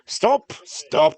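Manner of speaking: high, loud cry to halt; sudden high-pitched storybook shout; exclaimed command. Acted. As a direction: call out sharply to stop the coach. Character calls a halt in story.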